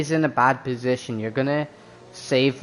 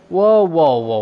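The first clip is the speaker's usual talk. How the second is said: surprised; 4 semitones higher, 8 dB louder than usual. Real, not acted. Shock at frozen tire temps.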